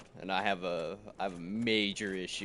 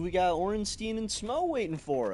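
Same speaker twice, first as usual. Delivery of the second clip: higher and louder, hyped up; pumped, shouting to the chat; excited; 10 semitones higher, 7 dB louder than usual. Real, not acted. Hyped up after laughing fit.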